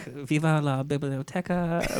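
mock Spanish. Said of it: "My Spanish is like in Bridesmaids".

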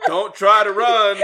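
slow, loud, laughing mock threat; half-hearted villain, drawn out through laughter; badly faked menacing role-play; hammed-up menace. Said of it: "Talk to me like you're raping me".

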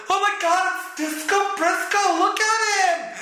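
high, gushing mock fan voice; gushing fan impression. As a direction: squeal like an awestruck fan in the stands.

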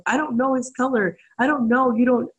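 mock bawling. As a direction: imitate the crying mom, half-hearted. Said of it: "she started just bawling".

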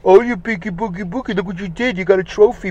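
high, sing-song mock praise to a child; gushing baby talk. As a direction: coo over the kid like a silly parent. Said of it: "Don't say, like".

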